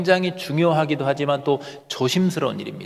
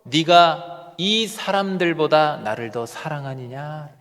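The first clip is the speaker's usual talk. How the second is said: slow emphatic question; slower than usual. Shown as a demonstration. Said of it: "역설적으로".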